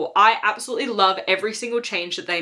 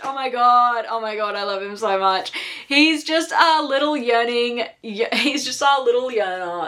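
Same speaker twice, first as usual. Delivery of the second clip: gushing; 3 semitones higher than usual. Real, not acted. Gushing about character.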